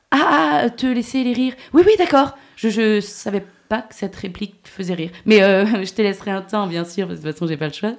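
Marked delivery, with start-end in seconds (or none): 0.1-2.4 sarcastic agreement. Retold or imitated. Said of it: "j'ai dû répondre un truc".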